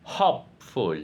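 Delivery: "hopeful" with stress on the first syllable, HOPE. Shown as a demonstration. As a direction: split "hopeful" in two, weight on HOPE. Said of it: "Stress pattern".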